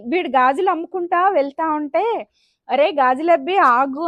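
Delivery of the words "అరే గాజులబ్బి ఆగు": slow, louder call to a passing bangle seller. Retold or imitated. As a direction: hail him to stop from a distance. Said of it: "పిలిచిందంటండి".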